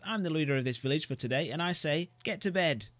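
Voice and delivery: high, loud bratty order; a boy bosses the grown-up around; bossy boy. Acted.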